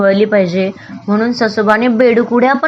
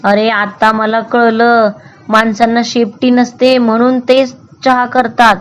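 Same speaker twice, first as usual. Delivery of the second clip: explaining; 2 semitones higher than usual. Acted. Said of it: "ससोबा समजावत म्हणाला".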